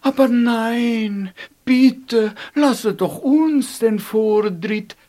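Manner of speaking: high, sweet plea; a light fairy voice; lovely fairies pleading. Acted. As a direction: ask daintily, like a fairy. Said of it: "baten die lieblichen Feen".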